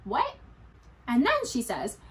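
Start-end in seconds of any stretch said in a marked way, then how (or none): 0.0-0.4 startled, rising "What?"; alarmed disbelief; surprised. Real, not acted. Reacting to stopping heart.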